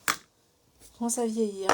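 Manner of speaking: slow, drawn-out repetition; slow deliberate restatement; slow emphatic repeat. Real, not acted. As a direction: lean on each word to drive it home. Repeats the remark slowly.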